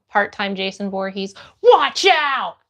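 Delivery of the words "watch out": playful yelled warning; mock warning shout. Streamer joking about part-time Jason Voorhees, mock warning shout. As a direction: holler it like a pretend alarm.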